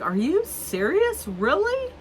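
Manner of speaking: high incredulous questions rising; shocked friend. Retold or imitated. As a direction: squeal out the disbelief. Friend hearing the story.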